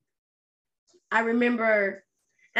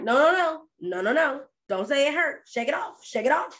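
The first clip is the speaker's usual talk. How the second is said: higher, quick mock insistence; dismissive parent; 5 semitones higher than usual. Parent to a hurt child, insistently dismissive. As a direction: imitate a parent brushing off the hurt.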